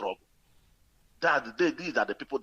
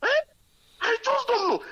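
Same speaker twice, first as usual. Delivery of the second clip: laughing; 4 dB louder than usual. Real, not acted. Amused laugh while talking.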